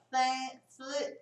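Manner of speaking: weak cut-off "th-" with no force; a weak blown th- that dies; failed TH attempt. Shown as a demonstration. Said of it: "nesse mesmo movimento". ("th-" fraco, sem força)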